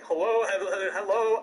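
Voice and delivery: mock babbling game-character greeting; Banjo-Kazooie voice. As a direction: imitate a cartoony game character. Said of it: "it's literally just like".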